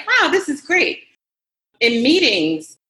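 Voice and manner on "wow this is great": mock delight. Retelling delight at perks.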